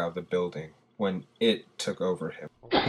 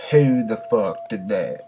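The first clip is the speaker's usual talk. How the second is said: louder, irate officer's demand; angry lieutenant; 5 dB louder than usual. A narrator's reading. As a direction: demand an answer from a subordinate. Lieutenant angrily questions his subordinate.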